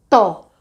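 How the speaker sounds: "Tó" dito sozinho, bem marcado; sílaba separada. Shown as a demonstration. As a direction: destaque a sílaba "Tó" com força. Silabando sons para alunos. (sílaba "Tó" pronunciada com clareza)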